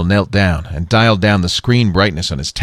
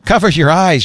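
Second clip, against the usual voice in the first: giggly warning; 10 semitones higher, 4 dB louder than usual. A narrator's reading. Girl warning before gas.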